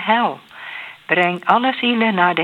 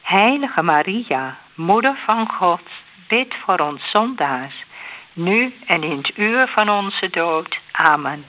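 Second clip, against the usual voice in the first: measured response with set pauses; prayer recitation. Real, not acted. Answering the Hail Mary with a plea to Maria, measured prayer recitation. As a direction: answer in an even rosary cadence.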